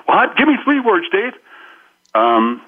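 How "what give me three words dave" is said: very high, needy plea; mock pleading. Needy person begging Dave for advice, mock pleading. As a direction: beg for advice like a helpless caricature. Acts out needy people questioning him.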